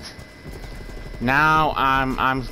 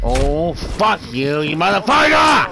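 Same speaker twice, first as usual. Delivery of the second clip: building angry yell; 2 semitones higher than usual. Real, not acted. Killed again, rage builds.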